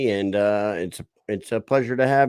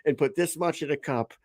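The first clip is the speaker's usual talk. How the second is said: mock indignant rant; 5 semitones higher than usual. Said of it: "He's like".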